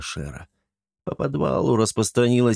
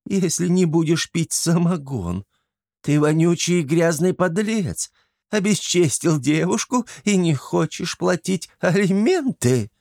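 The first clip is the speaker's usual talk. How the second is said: a hint of kikimora; 8 semitones higher than usual. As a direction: answer slyly as the swamp witch. Kikimora voice continues.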